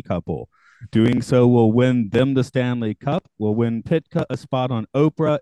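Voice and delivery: measured, scripted summary reading; deliberate podcast recap narration; synopsis read-out. A narrator's reading. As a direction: read the plot out like a prepared blurb. Reads out a plot summary.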